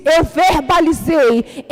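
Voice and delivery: normal talking voice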